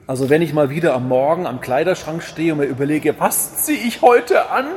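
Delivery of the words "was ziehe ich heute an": higher, a playfully voiced question to himself; pondering at the wardrobe. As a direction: act out puzzling over clothes. (spielerisch hohe Frage an sich selbst)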